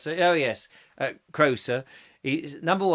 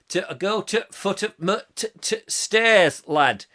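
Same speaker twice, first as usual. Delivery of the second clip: put-on Northern English accent; 3 semitones higher than usual. Telling a lad about stairs, mock Northern accent. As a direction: overdo the clipped t' of Northern speech.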